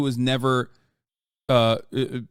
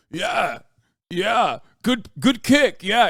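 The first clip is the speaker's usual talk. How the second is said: higher and louder, mock-casual taunting praise; mock fighter taunt; 7 semitones higher, 4 dB louder, slower than usual. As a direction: ham up a cocky fighter teasing his opponent. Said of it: "he's like".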